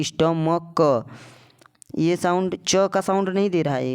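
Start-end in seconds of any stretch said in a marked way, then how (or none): 0.0-1.1 "स्टमक" very slowly, syllable by syllable; drawn-out k ending. Shown as a demonstration. Teacher proving the k sound, "स्टमक" slowly sounded out. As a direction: stretch "स्टमक" and release the final "क" separately. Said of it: "ये क का sound दे रहा है".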